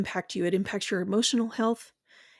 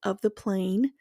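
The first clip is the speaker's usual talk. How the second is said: guided visualization. Acted. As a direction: paint the fall for them, one image at a time. Guided imagery of being betrayed.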